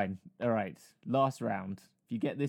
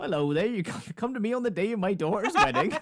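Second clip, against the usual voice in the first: West Country Godfather; 7 semitones higher, 5 dB louder than usual. Pretend. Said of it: "West Country Godfather".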